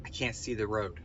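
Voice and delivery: small, soft muffled voice. Retold or imitated. Daughter sunk behind the wheel calls to dad, muffled. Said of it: "voice all muffled".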